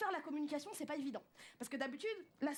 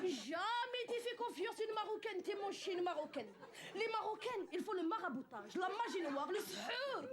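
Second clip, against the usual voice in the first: mother's voice; 3 semitones higher, slower than usual. Retold or imitated. Mother warning about Moroccan women.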